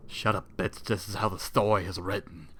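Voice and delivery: ordinary delivery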